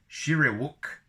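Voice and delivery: loud high Wookiee-style call; Wookiee word. Shown as a demonstration. Teaching Wookiee language names.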